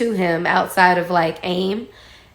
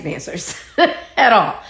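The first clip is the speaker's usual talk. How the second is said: laughing. Shown as a demonstration. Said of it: "no, for real".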